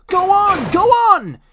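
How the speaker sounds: very high, loud gleeful squeal; gleeful trucks. A narrator's reading. Naughty trucks pushing Thomas downhill, squealing with glee. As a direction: push him on, naughtily.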